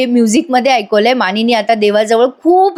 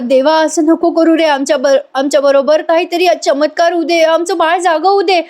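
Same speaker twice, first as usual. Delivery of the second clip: plaintive plea, pitched up; retold tearful prayer; 5 semitones higher than usual. Grandfather begs God for a miracle, acted as tearful. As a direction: implore God, mildly tearful and high. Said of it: "विक्रमही रडायला लागतात".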